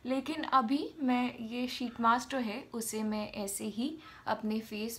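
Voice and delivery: wet mask over lips; slightly muffled mouth movement; speaking through sheet mask. Real, not acted. Seen 3: Sheet mask covers whole face including mouth throughout speech.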